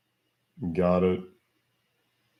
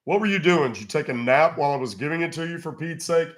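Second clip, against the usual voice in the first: exasperated; 6 semitones higher than usual. Real, not acted. Scolding scammer for not listening.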